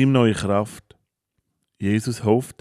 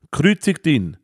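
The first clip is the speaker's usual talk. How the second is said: crowd's cry, higher and louder; calling out; 6 semitones higher, 3 dB louder than usual. A narrator's reading. The crowd shouting to Pilate, loud and high. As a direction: demand it loudly. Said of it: "rufen die Anwesenden".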